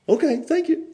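high, mild, unruffled thank-you; smiling thanks. Retold or imitated. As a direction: thank an angry man with a smile. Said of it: "Just smiled at him".

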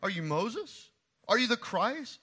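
loud, high, begging shout; pleading crowd. Retold or imitated. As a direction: plead desperately for an answer. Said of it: "they asked".

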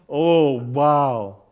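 loud, drawn-out laid-back dude; chill guy impression. Preacher mimicking the YouTube death-ray guy, chill dude voice. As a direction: stretch it out like a cool, chill guy. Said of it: "And that's how he sounds".

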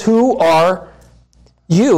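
rising challenge on you; stress on you. Shown as a demonstration. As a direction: press the you. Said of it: "emphasize the you".

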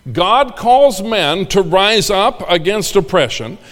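"calls" rising, slow and stressed; slow, stress "calls" and "rise"; emphatic repeat. Shown as a demonstration.

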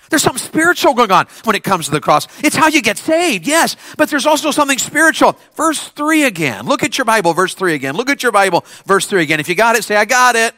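loud, punchy preaching. Real, not acted. Preacher calling youth to their Bibles, energetic preaching. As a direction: drive it at the crowd.

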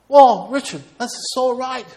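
high, hammed-up agreement; mock-elated, starting loud and high; Dave's delighted realization. Acts friend's delighted realization.

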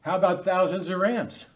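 high, mock-exasperated challenge; lightly voiced witness. Preacher playing the witness challenging God, mock exasperation. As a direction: start high, then ease down into the offer. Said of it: "the guy in the witness is standing saying".

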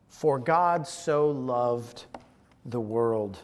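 low, slow, softly falling reverent reading; solemn. Real, not acted. Preacher quoting scripture to the congregation, solemn. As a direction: let the verse settle quietly, word by word. Quotes the verse gravely.

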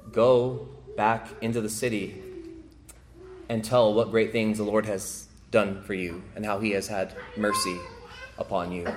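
a soft, tender commission; gentle words of Jesus. Acted. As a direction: send him home gently. Jesus gently sends the healed man.

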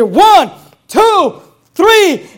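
loud and high, rising count. Acted. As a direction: count the strikes with mounting energy. King counting strikes, building.

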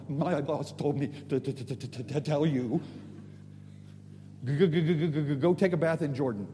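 stammering, frightened servant impression; nervous servant. Servant giving orders to a powerful general, nervous stammer. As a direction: stutter hard on the first sounds, hammed-up nerves. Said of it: "so I imagine the servant's going".

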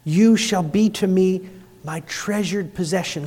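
soft, hushed and close; tender. Shown as a demonstration. God to his people, hushed tender promise. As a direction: say it like a secret of love. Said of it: "God says that to us".

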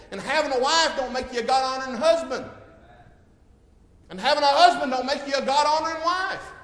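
loud, high, ringing pulpit delivery; preaching at full force. Acted. Preacher to congregation on being God-honoring parents, preaching at full force. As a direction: drive each line home to the congregation.

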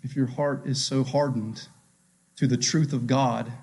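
dropped to a soft, grave hush; soft solemn warning. Real, not acted. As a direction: lean in and say it quietly. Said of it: "preacher's hushed aside".

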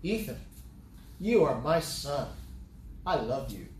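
sincere declaration to one person, "you" stressed; direct address. Shown as a demonstration. Father telling his son he loves him, direct and emphatic. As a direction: speak straight to your son, firm on "you". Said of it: "to make this point".

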